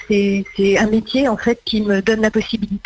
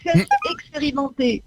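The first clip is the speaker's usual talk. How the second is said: TV announcer voice; 6 semitones higher than usual. Shown as a demonstration. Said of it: "celle qu'on entend à la fin des programmes annoncer le programme".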